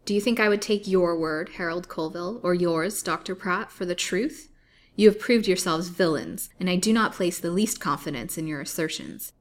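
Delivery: defiant. Acted. Lily defies her captors.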